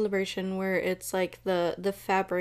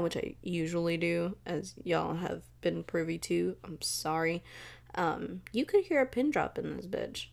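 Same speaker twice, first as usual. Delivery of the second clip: usual speaking voice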